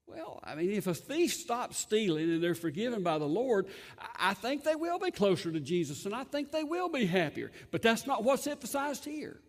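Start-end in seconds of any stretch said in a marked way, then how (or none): none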